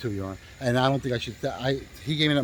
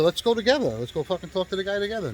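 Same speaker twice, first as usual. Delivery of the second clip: heated retort; 6 semitones higher than usual. Retold or imitated. Narrator retells urging partner to confront the rival, raised heated voice.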